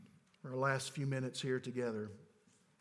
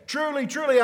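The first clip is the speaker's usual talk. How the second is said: loud, high proclamation; 10 semitones higher, 12 dB louder than usual. Acted. Formula again at full force.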